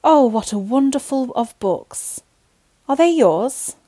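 high, loud cry of delight; excited cry. A narrator's reading. Lionel crying out at a library full of books, excited. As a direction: exclaim in wonder, pitched high. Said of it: "Lionel cried out".

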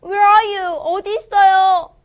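high, calling out for family; lost dog calling. Acted. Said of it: "더그가 놀랬네요".

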